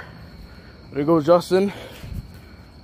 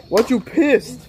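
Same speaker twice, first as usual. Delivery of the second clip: laughing; 5 semitones higher, slower than usual. Real, not acted. Teasing friend, laughing.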